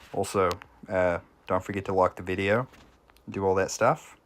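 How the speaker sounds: lightly imitated streamer accent for a sign-off; All Clouded accent. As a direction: put on a streamer's accent for the like-the-video plug. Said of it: "My All Clouded accent is much better".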